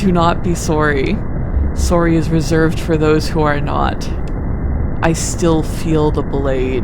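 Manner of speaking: slow, grave ghost voice, fading away toward the end; a lightly voiced mournful ghost, drawn out; solemn ghost. Ghost recalling his murder to the player, slow and grave.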